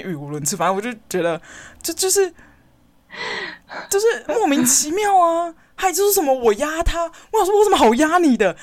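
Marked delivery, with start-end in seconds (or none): 1.8-7.0 委屈得哽咽；声音拔高、带着哭腔放慢说；气到快哭出来，慢慢挤出这句；委屈哽咽地说. Real, not acted. 气到快哭地抱怨主管.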